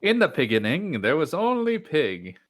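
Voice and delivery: epic narrator voice. Pretend. Epic intoning, louder.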